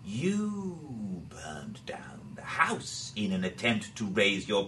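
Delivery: low, slow whispered accusation. Acted. Doctor whispering an accusation to the farmer's daughter, hushed. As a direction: hiss it close and secret. Crow confides accusation to Elsa.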